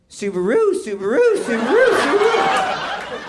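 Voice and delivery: rising mock bird call, climbing high and long on the last Subaru; weird bird call. Dad in the aisle calling to a woman, mock bird call. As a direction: coo it out like a strange mating call. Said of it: "doing some weird lesbian bird call".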